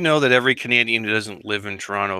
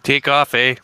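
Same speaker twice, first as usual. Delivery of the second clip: put-on Canadian accent; 4 dB louder, slower than usual. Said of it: "really good Canadian accent".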